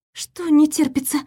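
squeak. Acted. Cornered girl to Elvin, a small frightened squeak. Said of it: "пискнула я".

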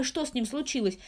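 plain reading voice

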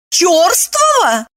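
slow outraged cry of the word; outraged shout at the man. A narrator's reading. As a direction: spit the word back, outraged. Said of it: "закричала она".

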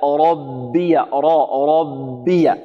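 "ربي" slowly split, heavy ر then light ب; slow corrective demo, ب of "ربي" kept thin; corrected thin ba. Shown as a demonstration. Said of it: "لا".

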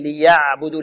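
ليعبدوا with the ayn flowing briefly, neither cut nor slack; medium ayn. Shown as a demonstration. Teacher modelling the correct ayn, balanced. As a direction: let the ayn in ليعبدوا sound moderately. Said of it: "توسط العين".

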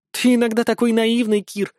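high, sweet cooing voice. A narrator's reading. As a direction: coo it like a flirt. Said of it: "проворковала Вяземская".

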